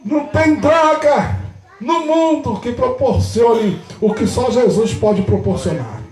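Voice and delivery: emphatic sermon delivery with stretched endings; forceful preaching. Real, not acted. Pastor telling congregation joy comes from within, forceful preaching. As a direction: preach it out with conviction.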